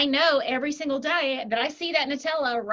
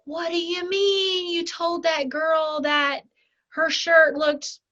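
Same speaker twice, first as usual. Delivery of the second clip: incredulous boss; 4 semitones higher, slower than usual. Retold or imitated. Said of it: "Because it's like".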